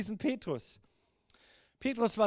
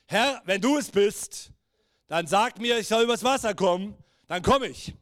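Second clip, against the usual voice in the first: loud, bold call over distance; lightly acted bold challenge; 5 dB louder than usual. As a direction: call it out with confidence. Peter calls out to Jesus.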